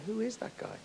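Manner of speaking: retold surprise. Singer hearing his own taped voice, startled and high. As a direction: recall the shock of not knowing your own voice.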